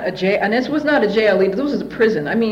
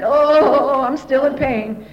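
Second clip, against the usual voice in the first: mock pained moan, louder at the start; acting in pain; 4 semitones higher, 4 dB louder, much slower than usual. Faking pain when they came back in the room, pained moan. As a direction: moan it out as if still hurting. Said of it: "I kept acting like".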